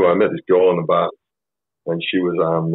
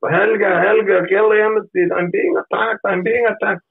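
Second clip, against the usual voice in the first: high, slow falsetto whine of a fake victim; mock victim squeal; slower than usual. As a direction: squeal it out high and drawn-out, playing the innocent. Calling girlfriend for help, mock squeal.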